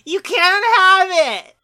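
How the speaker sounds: put-on high girly ghost shout; glitchy giggling ghost whisper. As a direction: shriek it like a possessed girl.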